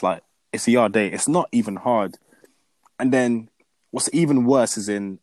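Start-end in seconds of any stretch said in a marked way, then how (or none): 0.0-1.1 Iyade said slowly and firmly; stressed, slow name. Shown as a demonstration. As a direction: spell out Iyade with weight. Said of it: "But regardless".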